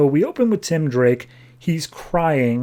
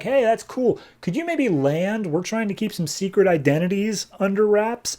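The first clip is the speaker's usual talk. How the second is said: mock exasperated friends; 8 semitones higher than usual. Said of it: "they're like".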